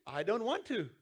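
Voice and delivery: a firmer, heartfelt refusal with weight on want; mean the refusal this time; said like you mean it. Retold or imitated. Pastor showing a child who means it, firm refusal. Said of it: "say it like you mean it".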